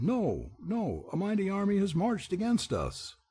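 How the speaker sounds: high, alarmed ogre cry; panicked shout. A narrator's reading. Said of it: "while others shouted".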